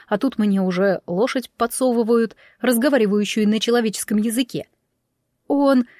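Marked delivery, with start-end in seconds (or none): 5.5-5.9 higher, halting disbelief; astonished double-check; bewildered question. A narrator's reading. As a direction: ask it stunned, breaking between the words. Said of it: "не знаю зачем уточнила я".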